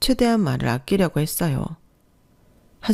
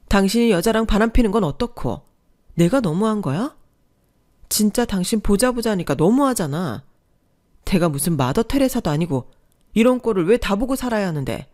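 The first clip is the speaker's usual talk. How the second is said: higher, heated accusation; furious wife; 3 semitones higher than usual. Acted. Wife confronting her cheating husband, heated and raised. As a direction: throw his cheating back at him.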